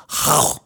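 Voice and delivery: imitated throaty animal noise; imitated director's noise. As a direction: bark out a breathy noise as a reminder. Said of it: "He'd just make that noise".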